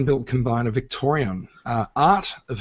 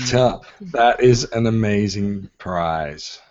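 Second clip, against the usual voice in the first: slow, lower sleepy sloth voice; super slow sleepy sloth; 3 semitones lower, much slower than usual. Pretend. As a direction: drag each word out like a sloth. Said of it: "I sound like the sloth from, uh, Zootopia".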